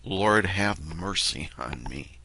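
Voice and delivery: slow, restrained plea to God; understated desperate cry. Acted. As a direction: cry out quietly, drawing out the words. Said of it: "you're just crying out".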